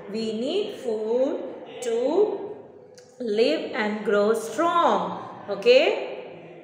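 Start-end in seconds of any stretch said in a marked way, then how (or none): 0.1-5.3 slow answer split into chunks; slow dictation. Shown as a demonstration. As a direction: break it up so pupils repeat. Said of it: "You have to say".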